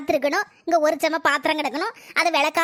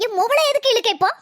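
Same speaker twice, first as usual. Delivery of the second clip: angry demand; 3 semitones higher than usual. Acted. Mother-in-law defending her daughter, angry demand. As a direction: bark it back in defence.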